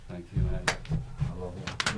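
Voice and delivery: choked-up thanks. Real, not acted. Emotional thanks after poem.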